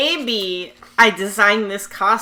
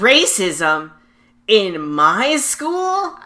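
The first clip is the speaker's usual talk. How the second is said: mock shock; 3 semitones higher, 5 dB louder, much slower than usual. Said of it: "and he goes".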